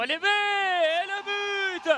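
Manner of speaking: loud goal shout; excited sports commentary. Real, not acted. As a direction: burst out on the goal. Header goal called live.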